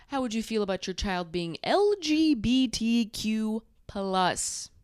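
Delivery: careful, drawn-out "L G B T Q plus" with each letter spelled; gay man version. Shown as a demonstration. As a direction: lay out "L G B T Q plus" letter by letter, primly. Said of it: "A gay man would say".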